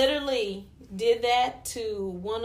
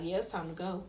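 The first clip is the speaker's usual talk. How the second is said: low, soft imitation of his order; retold quiet order; 5 semitones lower, 11 dB quieter, faster than usual. Boyfriend behind her on the dance floor, quiet retold order.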